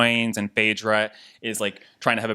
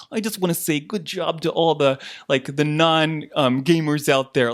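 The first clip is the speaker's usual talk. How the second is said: lightly mocking, higher-pitched little voice; C T's little voice; 4 semitones higher than usual. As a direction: put on a hint of a condescending little voice. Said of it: "it's like his little voice".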